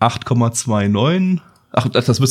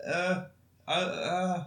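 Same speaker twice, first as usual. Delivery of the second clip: just hit in the groin; 8 semitones higher, 12 dB quieter, slower than usual. Real, not acted. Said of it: "meine Eier am Türspalt hier irgendwie eingeklemmt".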